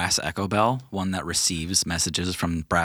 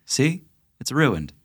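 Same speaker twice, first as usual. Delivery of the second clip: higher, slightly pushed complaint; a little voice declaring doom from off screen; offscreen voice; 6 semitones higher, slower than usual. Acted. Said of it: "you hear a voice from off screen say".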